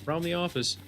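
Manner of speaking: a hint of an eager office organizer; mock-friendly office poll voice; coworker polling the office. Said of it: "But if somebody's like".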